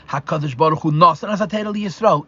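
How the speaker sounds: emphasis on "Nasan" and "HaTorah"; stress on key words. Shown as a demonstration. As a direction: lean firmly on "Nasan", then on "HaTorah". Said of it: "Emphasis on the word Nesina".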